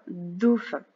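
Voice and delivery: slow, separated sounding-out of "dauphin"; syllable by syllable. Shown as a demonstration. Teacher naming the first drawing for a pupil, syllable by syllable. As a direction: draw out "dauphin" slowly in two syllables.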